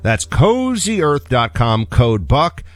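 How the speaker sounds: upbeat sponsor read by the host. Real, not acted. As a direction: sell the product with lifted emphasis.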